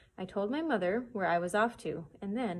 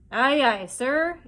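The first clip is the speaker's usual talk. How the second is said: louder, higher hearty reply; pirates answering; 5 semitones higher, 10 dB louder, much slower than usual. Acted. Pirates answering the blind man's order, loud. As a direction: bark back an eager yes.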